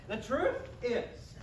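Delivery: TRUTH drawn out slowly, falling; solemn slow truth. Acted. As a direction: lean hard on truth. Slow emphatic restart.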